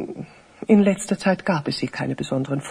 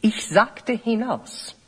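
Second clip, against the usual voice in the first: cold repeated order; 5 semitones higher than usual. Acted. Priest repeats order to leave.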